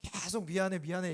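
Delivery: softly repeated apologies, voice dropping low; soft apology. Retold or imitated. Pastor quietly apologizing to the angry young man, softly. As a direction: say sorry again and again, quietly giving in. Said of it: "미안하다고 했답니다".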